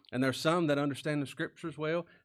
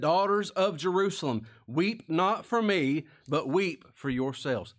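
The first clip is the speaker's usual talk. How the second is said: preaching Jesus' words; 3 semitones higher, 4 dB louder, slower than usual. Acted. Preacher voicing Jesus to the daughters, slow and loud. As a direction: let the command ring out slowly.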